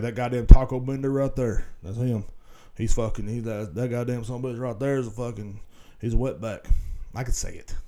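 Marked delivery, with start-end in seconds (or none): 0.0-6.7 mocking racist redneck. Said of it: "they like".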